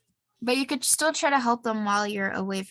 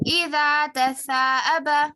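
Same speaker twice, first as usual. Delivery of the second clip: loud recitation; 2 semitones higher, 6 dB louder than usual. Shown as a demonstration. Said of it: "Repeat after me".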